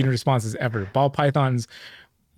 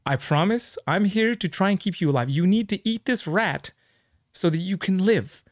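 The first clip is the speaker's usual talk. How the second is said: pleading pep talk; 4 semitones higher than usual. Retold or imitated. Keeper coaxing his scared snake to eat, earnest pleading. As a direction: gently beg the snake to eat, voice lifted high. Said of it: "I'm gonna be like".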